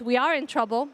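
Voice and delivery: normal talking voice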